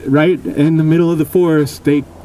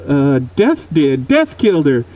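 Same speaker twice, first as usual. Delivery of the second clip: put-on shifty old man. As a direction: drag it out like you're hiding something. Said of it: "shifty-eyed".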